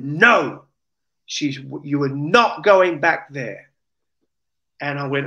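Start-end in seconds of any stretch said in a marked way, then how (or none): 0.0-3.7 retold shout. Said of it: "and then she shouted".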